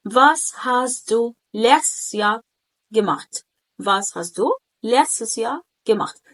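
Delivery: letztes run together in one smooth piece, unsplit; clear model pronunciation. Shown as a demonstration. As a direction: model the question word by word, keeping letztes whole. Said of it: "إن أنا سرعت النطق". (نطق نموذجي واضح لكلمة letztes من غير تقطيع)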